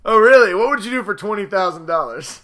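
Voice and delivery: mock-generous teasing offer; mock tempting offer. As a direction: dangle the money slyly. Tempting someone with cash.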